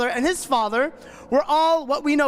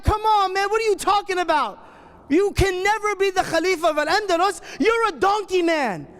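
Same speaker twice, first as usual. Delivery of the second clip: higher, scoffing at a friend's big dream; mocking disbelief; 6 semitones higher than usual. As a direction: laugh him down like a doubting buddy. Friends ridicule his dream.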